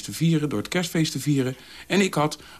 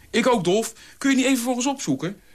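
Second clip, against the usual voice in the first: heel hoog en snel; plagend; 11 semitones higher than usual. A narrator's reading. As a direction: jen hem spottend. Polly jent Dolf. (spottend uitdagend aan Dolf)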